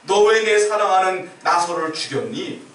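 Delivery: preacher voicing a furious accusation; angry rebuke. Jesus confronting death over grieving loved ones, acted anger. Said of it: "하고 화내시는 거예요".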